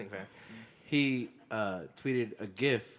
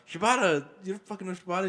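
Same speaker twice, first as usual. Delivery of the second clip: incredulous; 8 semitones higher, 6 dB louder than usual. Retold or imitated. Retold disbelief at friend.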